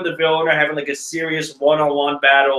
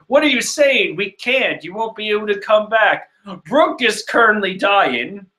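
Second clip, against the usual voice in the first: put-on lightly raised girl voice; 4 semitones higher than usual. Nami voiced, higher.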